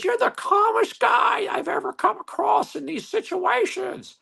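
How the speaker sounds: put-on high squeaky voice of an old lady lawyer; Jimmy Neutron's teacher. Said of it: "She sounds just like that?".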